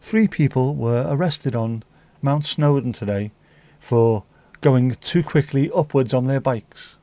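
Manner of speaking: measured news-presenter read with deliberate pauses; regional TV newsreader. Acted. Showing Mandy she sounds like regional news, newsreader voice. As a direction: deliver it as a local bulletin, phrase by phrase. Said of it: "Regional news T V presenter".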